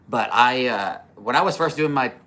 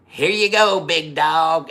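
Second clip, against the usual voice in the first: loud, higher taunting callout; re-enacted holler, pitched up and punched; calling out; 6 semitones higher, 7 dB louder, slower than usual. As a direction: call it out big and loud. Retelling own callout in video.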